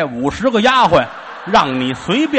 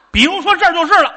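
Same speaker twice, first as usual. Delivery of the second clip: laughing; 10 semitones higher, 5 dB louder, faster than usual. Shown as a demonstration. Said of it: "比如说这儿就是澳大利亚那灵堂了".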